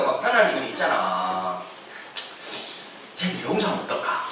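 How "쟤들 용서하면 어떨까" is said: softly voiced, low and tentative; gentle suggestion. God asking Jonah to forgive, gentle suggestion. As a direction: float the idea quietly.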